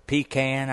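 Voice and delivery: PECAN said "PEE-can"; local pronunciation. Shown as a demonstration. Host naming the island to his guest, PEE-can pronunciation. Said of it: "is it pecan or pecan".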